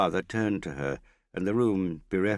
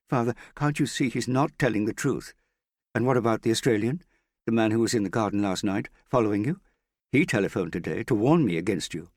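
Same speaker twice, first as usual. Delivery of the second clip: urgent; 7 semitones higher, 6 dB louder than usual. A narrator's reading. Daughter accusing Morris to father.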